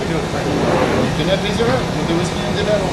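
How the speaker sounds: hammy Scottish accent, lightly done; terrible Scottish accent. Shown as a demonstration. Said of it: "Still terrible".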